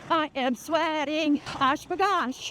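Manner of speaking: breathless while running; puffing out words mid-run; out of breath. Real, not acted. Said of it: "Can you tell I'm fading?".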